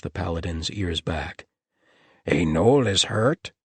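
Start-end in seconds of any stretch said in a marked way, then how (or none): 2.3-3.5 slow gnoll voice, alarmed; worried gnoll. A narrator's reading. Gnoll learning a gnoll is injured, alarmed. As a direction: gnoll creature asking in sudden concern.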